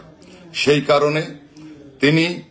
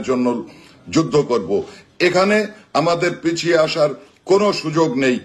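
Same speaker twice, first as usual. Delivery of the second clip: rousing, higher-pitched call to action; rally speech; 4 semitones higher than usual. Acted. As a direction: fire up the crowd like a rally orator. Rallies supporters to act.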